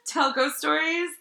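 one word at a time, alternating; staccato. Pretend. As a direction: chop the intro into single words. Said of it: "apparently only say one word at a time".

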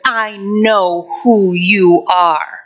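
slow, menacing whisper-like taunt; wicked voice. Retold or imitated. The voice behind the hospital curtain, slow and menacing. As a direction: drag it out like something sinister. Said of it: "this wicked voice ... says".

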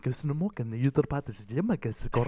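made-up Croatian gibberish with a laugh; mock Croatian. Podcaster imitating his friend speaking Croatian, mock Croatian. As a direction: babble in fake Croatian, half laughing. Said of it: "Sorry once again to all Croatian people".

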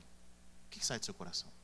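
whispered searching question. Shown as a demonstration. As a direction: drop to a whisper to draw them in. Preacher repeats the question. (pergunta sussurrada)

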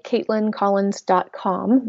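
slowly, each word clear; slow and careful. Shown as a demonstration. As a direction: spell out the web address slowly. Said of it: "My first name is spelled".

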